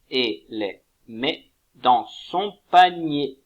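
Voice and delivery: Nina ramasse dictated very slowly, word by word; dictation pace. Shown as a demonstration. Teacher dictating the model sentence, slow and deliberate. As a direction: dictate the sentence slowly so they can write. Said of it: "ce que je vous propose d'écrire".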